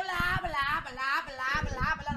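loud blah-blah imitation; parrot's nonstop blabbing. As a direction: mimic a parrot that won't stop. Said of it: "no para de ahí".

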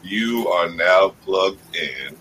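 a hint of a radio crooner; deep soul singer voice. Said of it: "He had to bring out the deep soul singer voice".

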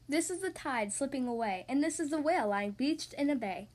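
measured, lilting read of a rhyming tale; children's story narration. A narrator's reading. Podcast host reading a snail and whale tale to children, storytelling. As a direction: read the rhyme clearly for young listeners. Reads a picture book to children.

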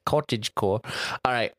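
cottagecore with a British accent, kʰɔtɪdʒ. Shown as a demonstration. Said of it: "in a British accent".

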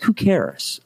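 ordinary talk

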